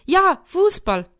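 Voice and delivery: high, loud, drawn-out yes; elated, slow and ringing; delighted cheer. A narrator's reading. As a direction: cheer it like an excited small boy. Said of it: "Augen begannen zu leuchten".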